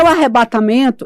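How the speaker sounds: loud, high alarm; panicked shout. Retold or imitated. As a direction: cry out in terror. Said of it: "Aí eu gritava assim". (grito apavorado)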